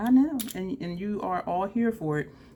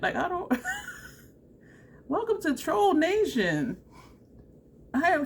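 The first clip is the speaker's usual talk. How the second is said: high, giggling through the words; giggly and high; laughing; 12 semitones higher, 3 dB louder than usual. Real, not acted. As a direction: laugh it off, embarrassed. Laughing at her runny nose.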